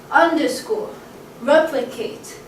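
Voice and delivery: "Underscore" and "replicate" with first syllable lifted, then falling; falling three-beat "Underscore", "replicate"; stress on first syllable. Shown as a demonstration. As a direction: lean on "Un" and "rep" in "Underscore, replicate". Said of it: "So things like".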